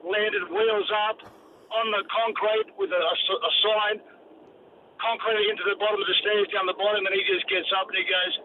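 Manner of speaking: usual speaking voice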